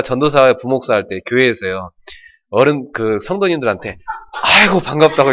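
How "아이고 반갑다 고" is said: hearty greeting. Retold or imitated. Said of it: "이렇게 치면서".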